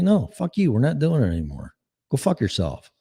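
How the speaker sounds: mock defiant truckers telling the system off; defiant refusal. Host voicing truckers, a defiant mock refusal. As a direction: spit it out like a protester refusing. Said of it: "like the truckers and the Canadians and say".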